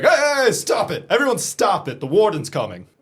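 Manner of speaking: loud call to stop the fight; shouting. Pretend. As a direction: shout to break it up. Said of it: "Be like".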